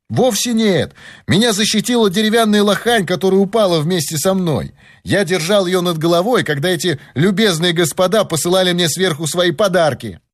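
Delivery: high-pitched, animated voice; lively high voice calling up; young helper. A narrator's reading. Helper telling his teacher how he survived, animated.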